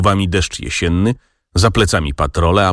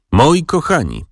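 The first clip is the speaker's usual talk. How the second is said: jęczenie; 8 semitones higher than usual. A narrator's reading. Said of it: "jęczał Liptak".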